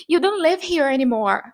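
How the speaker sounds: mildly dramatic TV character quote; series character's line. Retold or imitated. Character in a series speaking, lightly dramatic quote. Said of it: "se a personagem tava falando assim".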